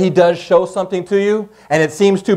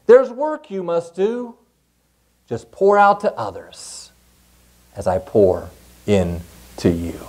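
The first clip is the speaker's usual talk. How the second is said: kindly; slower than usual. Acted. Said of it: "spoke to it kindly".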